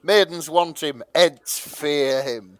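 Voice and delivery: mock-grand trailer voice, building; mock-epic reading. To friends, reading the fic summary like a movie trailer. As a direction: announce it like an epic legend.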